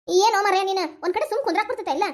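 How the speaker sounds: exasperated telling-off; scolding. Acted. Mother to child who made a mess, scolding. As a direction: scold a naughty child with mild force. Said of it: "ಯಾಕ ಹಂಗ್ ಜೋರ್ ಮಾಡತ್ತಿ".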